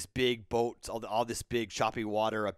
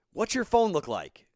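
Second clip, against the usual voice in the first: high, loud shouted question; asked loudly over traffic; called out question; 8 semitones higher, 6 dB louder than usual. Retold or imitated. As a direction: shout across to another car. Employee calling between cars.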